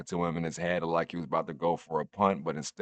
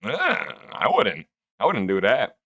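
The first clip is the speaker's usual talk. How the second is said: disgusted aside; 4 semitones higher, 6 dB louder than usual. Retold or imitated. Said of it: "I'm like".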